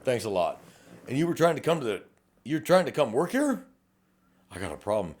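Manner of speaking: lightly voiced, sarcastic thanks, pitch up; mock groan at bad news, rising up; sarcastic detective. Detective mocking an applicant caught with a phone, sarcastic. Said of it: "I'm like".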